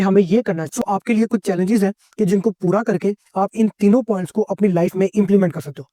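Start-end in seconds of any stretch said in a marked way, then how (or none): 0.0-0.7 firm, decided statement; certainty and authority. Shown as a demonstration. Coach showing how to speak decisively, certain and authoritative. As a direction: say it as a settled decision. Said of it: "पूरी certainty और authority के साथ बोलो".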